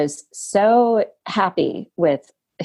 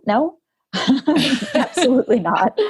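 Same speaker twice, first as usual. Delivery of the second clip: laughing no; 7 semitones higher than usual. Real, not acted. Laughing denial of going back.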